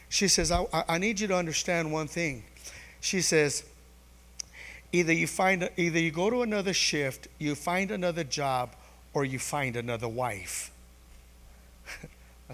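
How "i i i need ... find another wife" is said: quietly laid-down ultimatum, imitated; cool, calm, collected. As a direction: imitate a wife calmly laying down terms, softer towards the end. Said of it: "real cool and real calm and collective".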